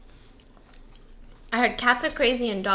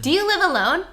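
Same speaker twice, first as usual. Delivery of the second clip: louder, pointed repeat of "Do you live alone?"; louder creepy repeat; 4 semitones higher, 5 dB louder than usual. Shown as a demonstration. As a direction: lean in and ask again, louder. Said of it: "That seems like a creepy thing".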